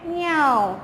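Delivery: falling, drawn-out "म्याऊ"; long meow word; cat meow imitation. Shown as a demonstration. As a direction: glide down like a mewing cat. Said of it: "cat का sound कैसा होता है".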